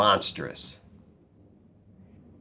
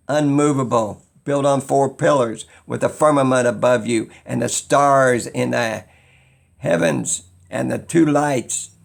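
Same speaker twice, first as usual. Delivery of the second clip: rising higher and louder, fervent; excited build; 4 semitones higher, 4 dB louder than usual. Real, not acted. Telling viewers about the biblical flat earth, fervent louder build. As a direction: climb into a fervent, louder rant.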